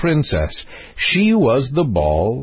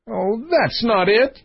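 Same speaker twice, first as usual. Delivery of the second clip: high-pitched theatrical sobbing voice; 10 semitones higher than usual. A narrator's reading. Queen protesting to the king, sobbing. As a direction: wail it high, as if crying. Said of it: "sobbed Her Majesty".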